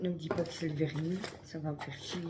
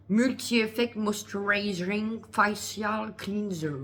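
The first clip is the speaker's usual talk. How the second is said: slow, hammed-up English accent on the product name; a French speaker reading a label in a proud fake English accent; 5 semitones higher, 4 dB louder, much slower than usual. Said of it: "je t'ai impressionné avec mon accent English".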